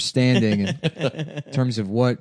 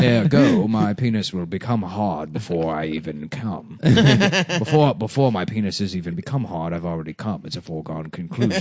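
low, measured, pompous pronouncements; the Architect; 6 semitones lower than usual. Acted. Likening himself to a film's all-knowing designer, pompous and measured. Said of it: "the architect in the Matrix".

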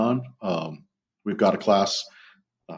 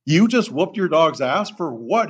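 high, slow, drawn-out disbelief; retold incredulity; 7 semitones higher, 3 dB louder, slower than usual. Trainer questioning handler about whooping his dog, incredulous. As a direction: re-enact baffled outrage, stretching the question.

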